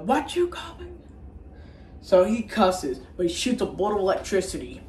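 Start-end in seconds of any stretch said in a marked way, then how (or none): 0.0-1.0 very high, soft indignant voice; high put-on kid retort; squeaky mock retort. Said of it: "He's like".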